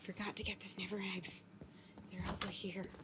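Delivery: secretive, hushed, very quiet whisper. Looking for the sniffer eggs, the speaker whispers.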